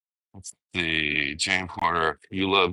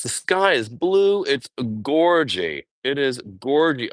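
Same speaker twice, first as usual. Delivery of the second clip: gushing; 5 semitones higher than usual. Real, not acted. Admiring the view.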